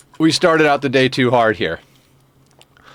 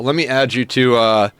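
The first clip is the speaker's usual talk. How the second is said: winded after stretches; breathless, catching breath. Real, not acted. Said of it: "let me catch my breath".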